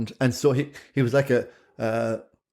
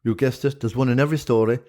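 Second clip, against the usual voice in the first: lilting Irish storyteller. Pretend. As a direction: tell it like an old Shanachie. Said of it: "give us a good old yarn that a Shanachie would".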